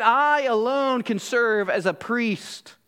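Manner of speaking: a bragging Levite, lightly acted; boastful. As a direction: stretch it out with imitated self-importance. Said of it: "They probably even boasted at times".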